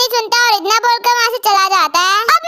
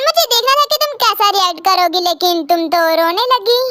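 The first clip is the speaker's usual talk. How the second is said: low, amused male voice; a hint of a teasing man; teasing professor; 5 semitones lower than usual.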